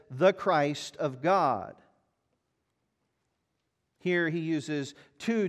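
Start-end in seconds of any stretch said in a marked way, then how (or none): 0.1-1.7 slow, louder declaration of the Christ of God; Peter's bold answer. Retold or imitated. Peter answers for the disciples, slow and bold. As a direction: declare it slowly and boldly. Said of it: "He says".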